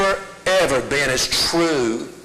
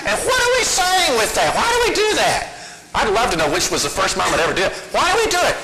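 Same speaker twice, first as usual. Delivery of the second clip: incredulous; 4 semitones higher than usual. Real, not acted. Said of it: "exasperated questions".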